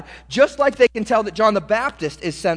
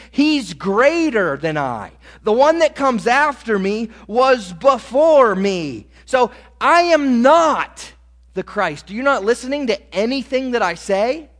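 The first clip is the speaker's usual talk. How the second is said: exasperated anger; 3 semitones higher than usual. Acted. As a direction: scold them for not listening. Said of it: "That's essentially John's attitude here".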